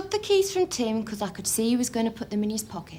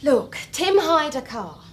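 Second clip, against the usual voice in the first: impatient; 5 dB louder, slower than usual. Acted. Girlfriend snaps at the questioning detective.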